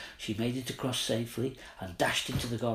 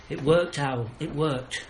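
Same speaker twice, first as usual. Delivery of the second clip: excited; 3 semitones higher, 5 dB louder, slower than usual. Acted. Tess bursts in with news.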